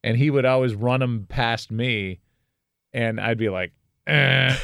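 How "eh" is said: louder, higher "eh" of rejection; mock reject buzzer. Son vetoing his dad's corny poem, mock buzzer. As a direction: buzz it like a wrong answer.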